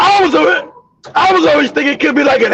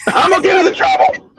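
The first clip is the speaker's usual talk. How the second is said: higher-pitched mock indignation; indignant retort; 5 semitones higher than usual. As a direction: throw the accusation back in disbelief. Acted indignant comeback in retold quarrel.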